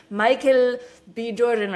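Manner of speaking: put-on name said slowly with an Italian accent. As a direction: say the celebrity's name as an Italian would, slow and lifted. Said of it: "like, with the accent".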